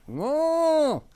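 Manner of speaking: high bleating goat voice; goat impression. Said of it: "like, a goat impression".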